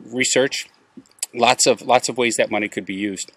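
catching a bug mid-sentence; swallowed a bug. Real, not acted. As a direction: talk on as a bug goes down. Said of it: "I just swallowed a bug".

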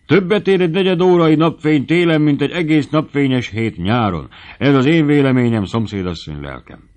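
loud, high, jovial declaration; hearty high spirits. A narrator's reading. Stout dancer cheers on his panting partner, loudly jovial. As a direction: proclaim it merrily, easing off at the end. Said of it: "Széles jókedvben".

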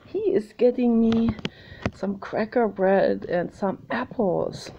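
mildly voiced greedy horse; voicing the horse. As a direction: horse spotting a snack in the van. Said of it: "and he was like".

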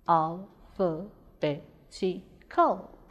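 "Alphabetical" very slowly in five separate syllables. Shown as a demonstration. Teacher breaking "Alphabetical" into syllables, slow and separated. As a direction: break "Alphabetical" apart with a pause after each syllable. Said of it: "Now let's break alphabetical into syllables".

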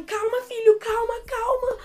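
high, urgent mock mom voice; worried mom, imitated. Mom to her hyperventilating son, imitated anxious soothing. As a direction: imitate mom trying to calm you. Mother calming panicking son, acted.

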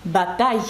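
"батай" ending in a y glide; French pronunciation. Shown as a demonstration. Teacher giving the word for battle, French pronunciation. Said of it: "французькою мовою".

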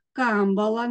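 «камбала» stressed on the first syllable, КАМ; наголос на перший склад. Shown as a demonstration. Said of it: "наголос має бути на перший склад". («камбала» з наголосом на КАМ)

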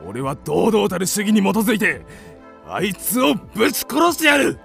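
blustering vow building in pitch; indignant bluster. Acted. Man fired up for a duel with the woman, blustering. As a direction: work yourself up into a fighting rage.

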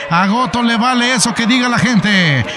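excited lucha libre play-by-play; wrestling commentator. Acted. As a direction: call the match live, rising with the action.

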